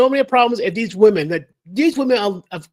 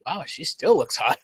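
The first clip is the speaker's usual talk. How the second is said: mock awe; 5 semitones lower, 8 dB quieter than usual. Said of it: "I go, like".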